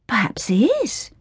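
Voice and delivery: hesitant whisper; uncertain whisper. Acted. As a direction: whisper it, unsure. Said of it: "Flora replied uncertainly".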